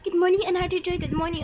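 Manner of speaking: loud morning wake-up call, easing off; noisy greeting. Acted. Cheerful riser greeting a sleepy household, noisily. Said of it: "Ang ingay mo".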